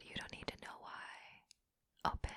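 commanding whisper. Acted. Repeats earlier line, whispered.

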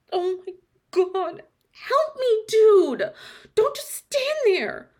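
high, loud desperate cry. Acted. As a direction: scream for help. Crying for help while slipping.

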